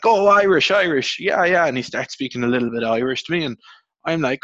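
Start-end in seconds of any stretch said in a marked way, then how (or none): 0.0-1.7 excited greeting. Retold or imitated. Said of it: "he's like".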